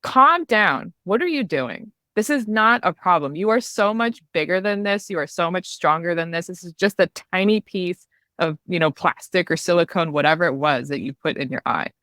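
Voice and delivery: imitating a friend snapping her out of panic; firm pep talk. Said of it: "she was just like".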